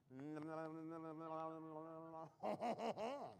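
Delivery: drawn-out nasal French "hon hon hon"; put-on Frenchman's chuckle; mock French laugh. Magician mocking the French to his audience, mock French laugh.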